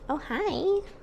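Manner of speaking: startled high hello; surprised greeting. Real, not acted. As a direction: caught off guard, greet it. Cat suddenly jumps on her.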